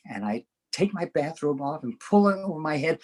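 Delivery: normal talking voice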